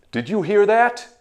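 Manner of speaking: ordinary delivery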